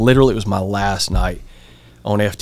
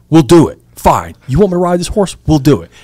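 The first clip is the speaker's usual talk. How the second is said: higher, punchy retold surrender; exasperated giving in; 6 semitones higher, 4 dB louder than usual. Trainee caving to the horse ride, exasperated. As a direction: give in with mock irritation.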